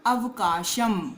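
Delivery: अवकाशम said slowly with a clear final म sound. Shown as a demonstration. Teacher demonstrating the final m to students, slowly. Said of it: "तब हम इसको म पढ़ते हैं".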